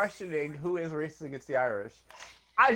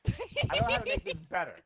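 laughing helplessly; 4 dB quieter, much faster than usual. Real, not acted. Flustered laughing apology.

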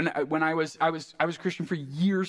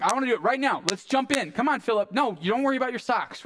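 acted eagerness, higher-pitched urging; fired up; 5 semitones higher, faster than usual. Eunuch telling Philip to jump in, fired up. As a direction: hurry your friend along excitedly. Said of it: "so fired up".

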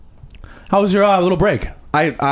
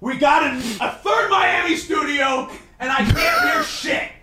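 frustrated shouting; 2 semitones higher, slower than usual. Acted. Host yelling, can't hear.

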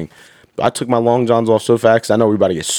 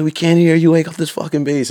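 higher-pitched mock drill yell; retold drill order; 7 semitones higher than usual. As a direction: imitate troopers demanding more noise. Acted drill instructors yelling at recruits.

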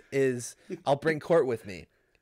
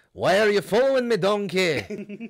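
loud, higher mock Shrek growl; Shrek impression; 6 semitones higher, 8 dB louder, slower than usual. Friend hams up Shrek for the podcast, loud and high. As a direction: bellow it like a cartoon ogre. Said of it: "I can't do Shrek".

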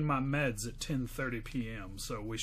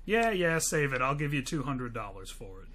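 Southern buyer. Acted. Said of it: "We're both doing the Southern guy".

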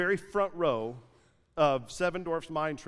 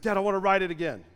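put-on kid voice; 3 semitones higher, 4 dB louder, faster than usual. Son begging again.

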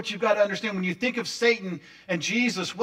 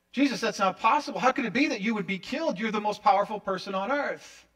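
incredulous protest; 4 semitones higher than usual. Acted. Peter protests Jesus' coming death.

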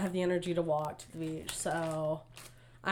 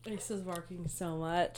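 hushed whisper aside; 9 dB quieter than usual. Real, not acted. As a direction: whisper it under your breath. Quiet aside about the dog.

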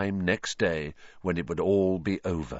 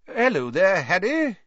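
higher, hearty minister voice; Fudge; 10 semitones higher, 4 dB louder than usual. A narrator's reading. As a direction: greet him with jovial bluster.

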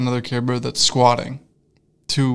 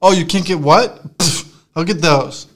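slow, raised mock disbelief; scornful, drawn-out comeback; defiant customer; 4 semitones higher, 5 dB louder, slower than usual. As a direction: drag it out, higher and louder, dismissive. Acted defiant customer mocking server.

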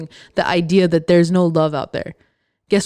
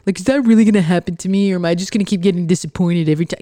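imitating a doubtful whiner, fast; a light mock of the negative crowd; mildly whiny skeptic voice; mocking whiny pessimist; 2 semitones lower, faster than usual. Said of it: "this is what I think they sound like in my head".

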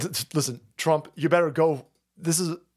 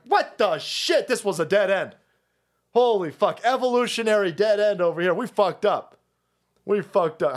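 dismayed DNA; 4 semitones higher than usual. Acted. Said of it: "dude's fucking D N A is like".

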